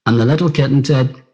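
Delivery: put-on gentle read-aloud for children, a touch livelier; storybook reading. A narrator's reading. Friend reading Brona's story aloud, gently storytelling.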